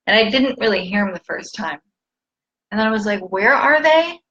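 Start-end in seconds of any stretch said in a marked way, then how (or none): 3.3-4.2 higher-pitched mock annoyance; imitating an irked question; retold pissed off. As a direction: demand it, mildly pissed off. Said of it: "Pissed off".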